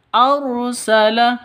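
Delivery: Arsala with the r thick and full; heavy ra. Shown as a demonstration. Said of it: "seperti itu".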